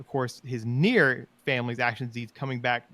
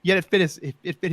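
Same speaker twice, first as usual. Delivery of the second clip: laughing; 7 semitones higher, 8 dB louder than usual. Real, not acted. Laughing recalling scene.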